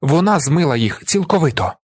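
high, urgent appeal to jurors; impassioned shouted plea. A narrator's reading. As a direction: plead for a comrade with conviction. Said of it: "кричу я".

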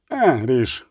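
restrained, tight-lipped retort; through clenched teeth. A narrator's reading. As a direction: let it out grudgingly through the teeth. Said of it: "процідив Ольсен". (процідити крізь зуби)

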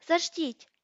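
різкий вигук, високо й голосно; вигукни в паніці, зупиняючи співрозмовницю; розпачливий крик. A narrator's reading. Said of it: "Він не збирався кричати". (злий панічний окрик)

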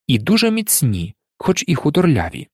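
ordinary delivery

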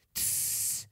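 breathy whispered hush; whispered shush. A narrator's reading. Rhince shushing Eustace in the dark, whispered. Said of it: "пошепки обізвався".

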